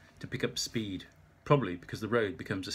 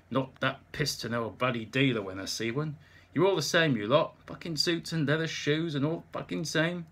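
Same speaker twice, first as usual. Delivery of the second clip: put-on mild drunken outburst, louder at the insults; half-hearted drunk tirade, building louder; drunken rant; 4 semitones higher, 3 dB louder than usual. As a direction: grumble angrily at the dealer. Drunk Nick ranting at dealer.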